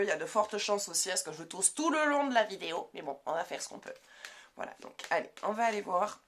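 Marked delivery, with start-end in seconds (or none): 4.6-6.2 hoarse voice breaking from a cold; voice cracking. Real, not acted. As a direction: let the cold voice crack and fade. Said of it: "j'ai la voix qui déraille un peu". (voix qui déraille)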